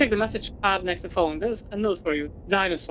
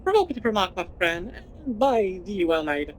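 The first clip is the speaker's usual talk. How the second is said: archaic speech. Acted. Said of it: "You just start talking like this".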